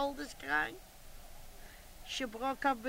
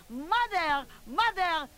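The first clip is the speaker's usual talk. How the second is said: put-on child calling; 3 semitones higher, slower than usual. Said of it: "She said".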